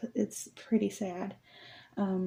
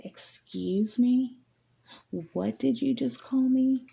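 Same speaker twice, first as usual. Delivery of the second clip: slow outraged "excuse me", rising higher; indignant, daring him to repeat it; indignant disbelief; 5 semitones higher, slower than usual. Retold or imitated. Insulted, retorting to jackass.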